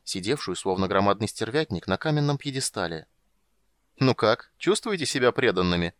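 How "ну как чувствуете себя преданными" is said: loud, taunting dragoness; mocking dragon voice. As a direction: sneer it like a dragon queen. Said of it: "осведомилась Хисант".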